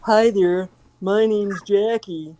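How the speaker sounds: a light Southern American drawl; slow down into a folksy American accent; put-on American accent. Shown as a demonstration. Scottish guest does her American accent on request, a light Southern drawl. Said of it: "do your American accent".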